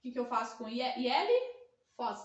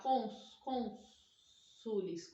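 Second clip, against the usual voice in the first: "cônsules" stretched very slowly, each syllable separate; slow syllable demo; 3 semitones lower, much slower than usual. Shown as a demonstration. Teacher showing the correct plural, very slow. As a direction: sound it out for the class. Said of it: "Mas não vai falar".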